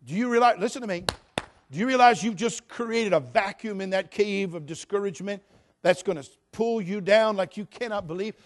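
ordinary delivery

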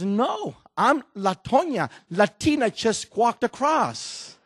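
high, loud and slowed, cheeky; loud triumphant punchline. Acted. Lady outwitting the immigration officer, loud and cheeky. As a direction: deliver the punchline big and sly.

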